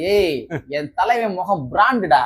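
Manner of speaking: lightly voiced movie hero boast; swaggering movie one liner. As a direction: toss off a mild film punch line. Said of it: "Sarkar படத்துல ஒரு scene வந்து வரும்".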